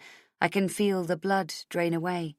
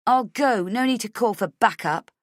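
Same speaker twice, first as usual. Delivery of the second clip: louder, higher snarl; 5 semitones higher, 4 dB louder than usual. A narrator's reading. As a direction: spit the words at the guard. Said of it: "I say, snarling".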